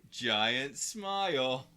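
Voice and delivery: loud, stretched-out mock grin voice; exaggerated slow. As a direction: drag it out beaming. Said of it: "you probably shouldn't be like".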